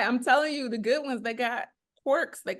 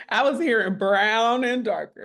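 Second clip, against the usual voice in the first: laughing while talking; 6 dB louder than usual. Real, not acted. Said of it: "She said".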